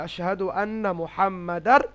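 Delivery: careful slow Arabic recitation. Shown as a demonstration. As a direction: recite আশহাদু আন্না মুহাম্মাদার slowly with held vowels. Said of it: "তো সেই কারণে আমরা কি বলি?".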